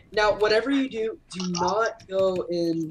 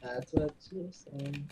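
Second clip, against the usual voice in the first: deep slow joke voice; 6 semitones lower, 12 dB quieter, slower than usual. Pretend.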